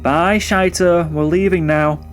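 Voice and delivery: high, slow sing-song call to a pet; gran calling the dog. Retold or imitated. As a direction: coax the dog, drawing out bye. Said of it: "she was going".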